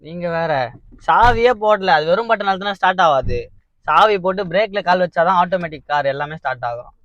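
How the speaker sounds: loud, high-pitched protesting explanation; urgent reassurance. Real, not acted. Son admits the car prank to upset mother, loud and urgent. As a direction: raise the voice to calm someone upset.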